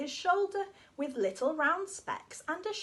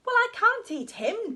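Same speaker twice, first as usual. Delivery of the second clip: loud protest; 7 semitones higher, 8 dB louder than usual. Acted. Dog refuses the miner.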